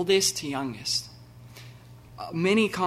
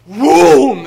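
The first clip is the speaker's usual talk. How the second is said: a huge, much higher shout of boom; 11 semitones higher, 20 dB louder than usual. Retold or imitated. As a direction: throw the word out like a flash of light. Jesus lets the sun in.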